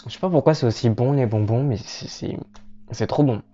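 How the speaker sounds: talking around a bite of candy; chewing while talking. Real, not acted. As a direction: mouth full of candy. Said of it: "parler la bouche pleine".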